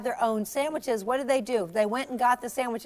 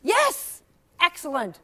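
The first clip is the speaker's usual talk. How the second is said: excited praise; 4 semitones higher than usual. Real, not acted. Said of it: "praising a child".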